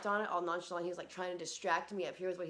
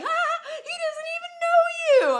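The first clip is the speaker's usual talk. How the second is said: high laughing quote, much louder; dad laughing; 17 dB louder, slower than usual. Retold or imitated. Dad on the phone laughing at the daughter's story. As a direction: crack up while saying it. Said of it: "My dad starts laughing".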